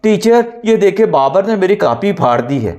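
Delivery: loud crying complaint. A narrator's reading. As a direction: cry out the complaint, tearful and loud. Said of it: "ऊंची आवाज़ में रोते हुए बोला". (ऊंची आवाज़ में रोते हुए शिकायत)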